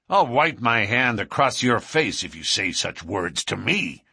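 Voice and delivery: mildly heated threat from the boss; hot-tempered cry. Acted. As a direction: bristle at the insult, understated. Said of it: "cried McGinty hotly".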